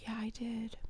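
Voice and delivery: soft, gentle whisper; whispered reassurance to a shy kid; whispered admission. Retold or imitated. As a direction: confide it quietly. Gently admitting crying to kid.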